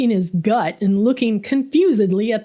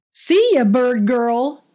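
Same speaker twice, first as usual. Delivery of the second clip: mocking taunt; 2 semitones higher, 4 dB louder, slower than usual. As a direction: jeer at her as she leaves. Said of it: "Smitty chimed in".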